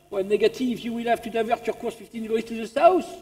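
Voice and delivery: put-on unruffled French-accented radio reply; French operator, matter-of-fact and insistent. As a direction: refuse calmly in a French accent. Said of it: "The French".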